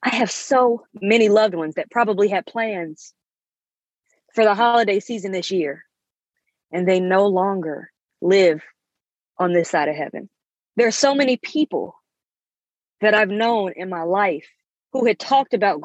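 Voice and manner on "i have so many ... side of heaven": choked up. Real, not acted. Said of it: "'cause I'm getting a bit choked up".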